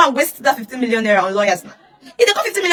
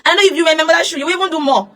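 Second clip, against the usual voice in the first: normal talking voice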